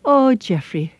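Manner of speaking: kindly, soothing Irish chiding; gentle Irish mother. Acted. Mother to her serious young son, gentle Irish voice. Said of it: "said to him in the nicest way".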